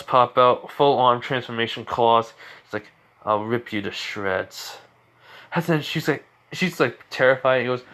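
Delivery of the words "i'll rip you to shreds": slow, low, quiet-ish threat; understated, drawn-out menace; menacing threat. Retold or imitated. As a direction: threaten slowly in a lowered voice. Acted threat with claws out.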